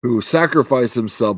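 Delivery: lightly voiced regal proclamation; solemn king. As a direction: declaim it like a royal eulogy. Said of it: "he's like".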